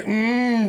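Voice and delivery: playful "mmm" of a stirring sleeper; sleeper's groan. Retold or imitated. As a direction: imitate someone rolling over asleep. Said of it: "って寝返り打ったから".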